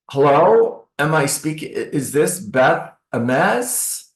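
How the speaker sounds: slow, hesitant stiff opener; cold caller. Shown as a demonstration. Agent demonstrating a typical cold call, hesitant. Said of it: "I call and I say".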